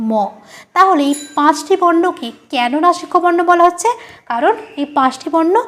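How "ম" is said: ম hummed out through the nose; nasal demonstration of the letter ম. Shown as a demonstration. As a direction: send the air through the nose on ম. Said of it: "নাক দিয়ে বায়ু বেরিয়ে".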